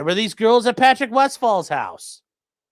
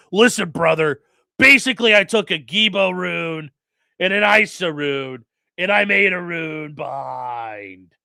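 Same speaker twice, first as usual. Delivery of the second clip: tough-guy brother; slower than usual. Retold or imitated. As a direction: say it like a tough biker buddy, mildly. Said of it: "I can't imagine him saying this, like".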